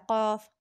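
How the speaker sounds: काफ said from the root of the tongue against the palate; tongue root letter. Shown as a demonstration. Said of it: "ज़बान की जड़ को जब हम तालू से लगाएंगे".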